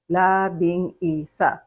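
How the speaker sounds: Labing isa said slowly, syllable by syllable. Shown as a demonstration. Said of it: "four syllables".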